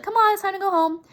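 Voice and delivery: a hint of a husband ready to leave; tired husband. Husband telling his wife it's time to leave, lightly voiced.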